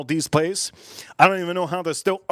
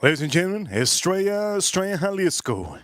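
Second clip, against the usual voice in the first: announcer call; 5 semitones higher than usual. Acted. Streamer hyping the beer to his chat, like a ring announcer.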